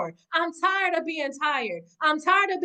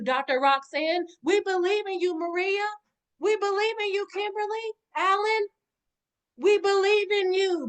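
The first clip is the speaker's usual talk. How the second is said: building from warm roll call to high impassioned calls; a preacher's rising litany of belief; rising fervor; 4 semitones higher than usual. Real, not acted. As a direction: lift each name higher until it rings out.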